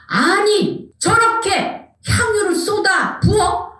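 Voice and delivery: high, drawn-out indignant protest; indignant onlookers. Acted. Onlookers objecting to perfume poured out, high indignant protest. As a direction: act out scandalized disbelief, pitched high. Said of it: "이 사람들이 뭐라 그러냐면".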